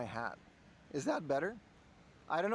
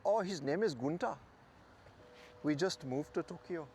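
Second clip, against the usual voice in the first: imitated German lady's accent; lightly put-on German accent. German lady telling a passer-by her dog's name, in a German accent. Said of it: "That's my German accent".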